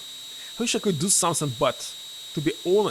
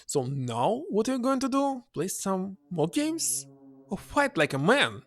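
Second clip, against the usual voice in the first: frustrated taunt; 5 semitones higher than usual. Acted. She taunts Lynx before storming off, frustrated sarcasm. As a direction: goad him scornfully. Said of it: "Frustrated, she storms".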